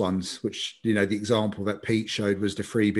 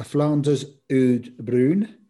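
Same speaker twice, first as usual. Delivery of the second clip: put-on Scottish accent; 4 semitones higher, 4 dB louder than usual. Naming his fifth beer of the tasting: Scottish accent. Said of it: "why you did it in a Scottish accent".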